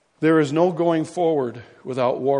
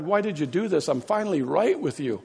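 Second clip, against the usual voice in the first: crying out to God; 5 semitones higher than usual. Retold or imitated. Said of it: "he cried out to God".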